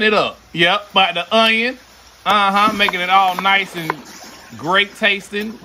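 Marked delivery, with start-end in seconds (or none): 4.6-5.6 slow, stretched-out praise; drawn out. Real, not acted. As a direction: draw the words out like a food ad. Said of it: "I don't know why I said it like that".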